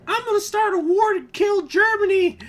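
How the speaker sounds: high, loud hammy bluster; blustering leader. Retold or imitated. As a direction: shout it like a warmonger. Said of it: "voicing leaders' taunts".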